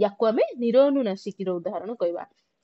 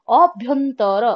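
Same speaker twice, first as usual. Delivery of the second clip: ଅଭ୍ୟନ୍ତର said loud, weight on ଭ୍ୟ rather than ଅ; stress on ଭ୍ୟ; 5 dB louder, much slower than usual. Shown as a demonstration. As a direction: push the ଭ୍ୟ in ଅଭ୍ୟନ୍ତର, not the opening ଅ. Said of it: "ଅ ଉପରେ ଆମର ଏତେ ପ୍ରାଧାନ୍ୟ ରହୁନି". (ଅଭ୍ୟନ୍ତରର ଭ୍ୟ ଉପରେ ଜୋର)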